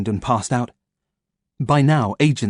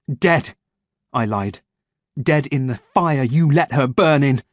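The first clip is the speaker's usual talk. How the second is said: bitter accusation; 3 semitones higher, slower than usual. Acted.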